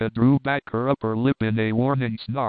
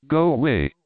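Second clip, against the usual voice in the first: sharp loud command, pitched up; 3 semitones higher, 4 dB louder than usual. Acted. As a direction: order him off, loud and sharp. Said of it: "commanded Tika".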